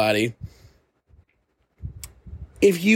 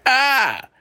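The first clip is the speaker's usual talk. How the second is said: put-on grumpy old man; 11 semitones higher than usual. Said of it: "I sound like the grumpy old man".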